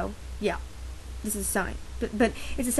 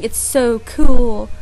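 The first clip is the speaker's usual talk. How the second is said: fawning crowd; 12 dB louder, much slower than usual. Retold or imitated. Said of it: "The crowd fawning".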